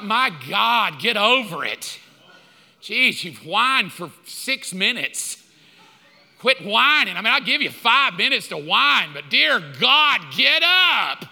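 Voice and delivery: exasperated, building to a shouted order; irritated. Retold or imitated. Husband fed up with his wife's whining, irritated. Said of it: "until I get irritated".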